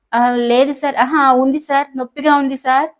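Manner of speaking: confused, tripping over her answer; flustered stammer. Acted. Manju flustered answering the professor, stammering. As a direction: stammer it out, caught off guard. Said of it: "తడబడుతూ తికమకగా".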